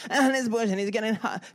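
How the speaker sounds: high, strained voice, acting out a heavy push; straining with effort. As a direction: tell it as if shoving a load uphill. Enacts pushing load up steep hill.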